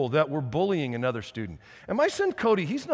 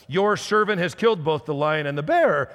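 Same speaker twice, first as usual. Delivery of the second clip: put-on young David's voice jumping up on the last word; voice cracking; 4 dB louder than usual. Young David boasting to Saul, voice cracking at the end. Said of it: "His voice probably cracked again".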